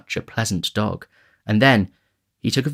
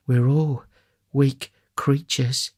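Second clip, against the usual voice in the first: higher, slow, measured lady; matron's voice; 5 semitones higher, slower than usual. A narrator's reading. Matron laying down a general principle, slow and higher. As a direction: pronounce it slowly in a higher lady's voice.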